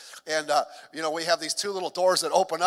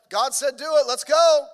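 higher, louder, building to a rallying shout; pumped-up Gideon; 5 semitones higher, 9 dB louder than usual. Retold or imitated. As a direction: fire up the troops. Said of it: "It's like".

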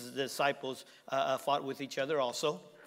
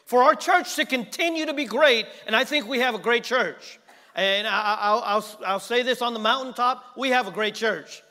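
much higher, louder declaration; loud praise; 7 semitones higher, 11 dB louder than usual. Real, not acted. Speaker praising the church and pastor, loud and high. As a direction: shout it from the mountaintop.

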